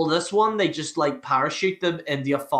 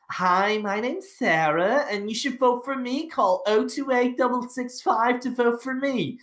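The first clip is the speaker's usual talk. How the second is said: higher-pitched, pleading contestant sales pitch; eager contestant; 7 semitones higher than usual. Retold or imitated. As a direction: plead for viewers' votes in a high voice. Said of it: "everyone's like".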